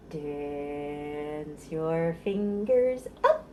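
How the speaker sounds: slow sing-song rhyme for babies; finger rhyme. Acted. Librarian leading parents and babies in a slow rhyme. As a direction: draw each line out slowly for the little ones.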